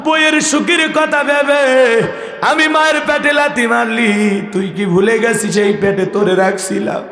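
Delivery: keening, melodic plea of a wronged mother; tearful mother. Retold or imitated. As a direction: wail it high, easing down as the reproach goes on. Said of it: "কাঁদে আর বলে". (কান্নাভেজা সুরে মায়ের আর্তি)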